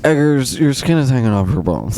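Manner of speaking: dramatic quoted line; hammy film villain delivery; movie quote voice. Retold or imitated. Mock Witch line quote.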